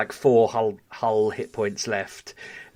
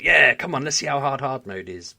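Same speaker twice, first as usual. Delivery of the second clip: keen bravado; 5 semitones higher, 6 dB louder than usual. Retold or imitated. Retelling his keen thought about challenge.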